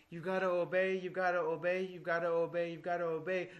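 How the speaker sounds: imitating a teacher hammering one demand; mock-insistent drumming; insistent repetition. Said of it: "if a teacher emphasizes".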